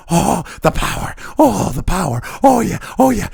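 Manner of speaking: lightly voiced mock moans of pleasure; mock ecstasy. Mocking bureaucrats enjoying their power, hammed-up moans. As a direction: ham up a bureaucrat drunk on power.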